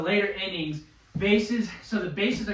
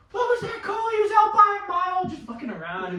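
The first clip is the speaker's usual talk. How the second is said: high, raised, incredulous protest; retelling a heated complaint to the umpire; mock yell at umpire; 10 semitones higher, 3 dB louder than usual. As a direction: call out the umpire in disbelief. Yelling at the umpire.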